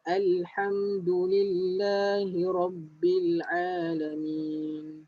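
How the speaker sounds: slow, drawn-out tajwid recitation; slow Quran recitation. Shown as a demonstration. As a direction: recite it slowly for students to follow. (bacaan tajwid perlahan)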